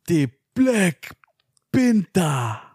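hushed, halting actor impression; Forest Whitaker. Third try for his co-hosts, hushed Forest Whitaker voice. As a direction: whisper into it, pausing between the words. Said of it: "really nail another third try".

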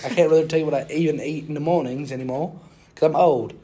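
put-on British accent. Podcaster recaps his week as a British man, mock British accent. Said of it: "I'll speak in a British accent".

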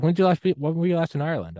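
high-pitched imitation of a baffled friend; incredulous questioning. Retelling friend's incredulous challenge.

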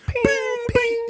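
high ringing "ping" sound effect; ball ping. Retold or imitated. Imitates bouncy balls pinging.

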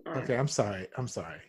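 しゅんとした謝罪; cringing submission. Acted. Apologising after lawyer's rebuke.

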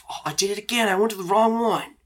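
awkward embarrassed nerd; Dean's voice. Acted. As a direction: play Dean caught out, embarrassed. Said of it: "he's like".

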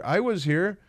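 lightly voiced indignant old woman; mock indignant senator. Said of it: "what do you mean I wasn't here".

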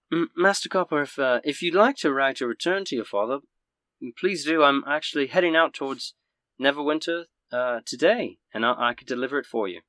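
a hint of a polite, obliging lady; helpful innkeeper's wife. Innkeeper's wife offers to deliver reply.

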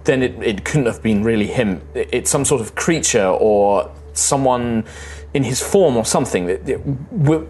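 stumbling, agitated denial; Sky Prince in disbelief. Acted. Sky Prince refusing to believe his mentor turned, stammering and agitated. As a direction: grope for another explanation, tripping over the words.

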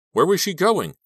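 high, loud narration; breakneck, urgent wondering; panicked question. A narrator's reading. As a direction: voice the runaway's alarm. Narrator voices the fleeing girl's panic.

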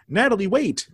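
lightly acted plea to stop; retold calling out. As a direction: imitate someone calling after a runaway. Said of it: "some kid named Jackie goes".

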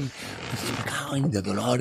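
slow, drawn-out curse of pain; imitated agonised grumble; retold pained cursing. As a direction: drag the words out as if hurting.

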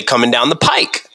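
"coming down the pike" ending on a clear k sound; "pike" with a hard k at the end. Shown as a demonstration. Host setting up a word quiz, saying the pike version. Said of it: "I hear people say".

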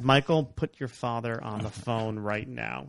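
slow, measured maternal order; retold no-nonsense command, drawn out; imitated stern mother. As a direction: spell out the demand slowly, as a stern mom. Stern mother demanding the father.

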